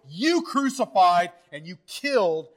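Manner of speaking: "you" punched as an accusation; pointed stress on "You crucified"; emphatic YOU. Retold or imitated. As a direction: lean hard on "You" and "killed". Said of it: "He's making a point".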